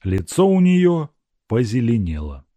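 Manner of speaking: ordinary delivery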